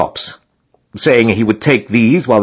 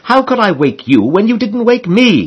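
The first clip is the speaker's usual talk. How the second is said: mild mock retort, raised pitch; 10 semitones higher than usual. Harris snapping back at his friend, mildly indignant. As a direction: toss it back with light indignation. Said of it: "he retorted".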